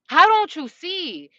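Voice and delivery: slow, loud, high plea of disbelief; exasperated. Real, not acted. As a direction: plead with them, dragging it out. Exasperated at unjust family.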